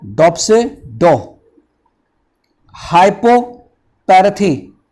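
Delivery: सियो, डॉप्सिडो, हाइपोपैरथी, रियोडिज्म as separate parts, slow on डॉप्सिडो and हाइपोपैरथी; split into parts. Shown as a demonstration. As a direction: break the word into four chunks. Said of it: "आपको चार भागों में बांटना है". (चार भागों में बांटकर बोलना)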